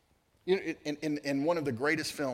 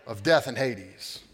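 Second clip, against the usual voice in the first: loud, slow, higher booming proclamation; proclaiming Scripture; 7 semitones higher, 9 dB louder, slower than usual. Acted. Preacher quoting Revelation to the congregation, booming slow. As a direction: thunder out each phrase, slowly. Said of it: "a God who said".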